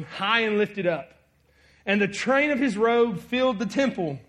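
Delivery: measured, solemn Bible reading; scripture reading. Acted. Pastor reading Isaiah to the church, solemn and measured.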